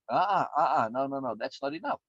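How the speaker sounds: emphatic no. Shown as a demonstration. Firm refusal of passive learning.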